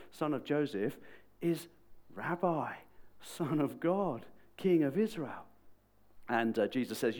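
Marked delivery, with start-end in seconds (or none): 2.1-5.5 higher, measured declaration; proclaiming. Retold or imitated. Nate proclaiming who the guy from Nazareth is, measured. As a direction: set out each title with pauses between.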